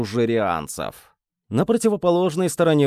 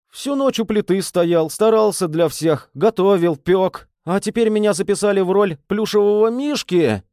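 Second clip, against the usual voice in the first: voice rising higher; 7 semitones higher, 4 dB louder than usual. A narrator's reading. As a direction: pitch climbing, louder and higher. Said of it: "Голос его становился всё выше".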